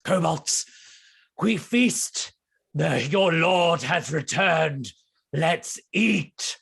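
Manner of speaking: lightly voiced kobold rallying his followers; pompous little monster calling the feast; crazed kobold lord. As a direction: proclaim it grandly, with pauses between commands. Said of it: "he turns back to his kobolds and he goes".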